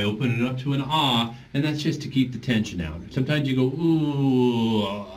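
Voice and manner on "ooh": tight, squeezed ooh, like being strangled. Shown as a demonstration. Teacher showing the wrong way to sing, strangled ooh. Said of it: "you sound like you're getting strangled".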